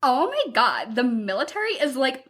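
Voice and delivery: lightly imitated overdone inflection; exaggerated eye-rolling teen delivery, understated; mock overacting Cadet Kelly. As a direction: play it as a mildly hammed-up complaint. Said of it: "the inflection of her voice is just wrong".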